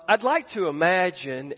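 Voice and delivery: "imagine" given extra weight; stress on IMAGINE. Real, not acted. Preacher framing his own guess for the congregation, stress on "imagine". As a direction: lean on the word "imagine". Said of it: "I stress the word imagine".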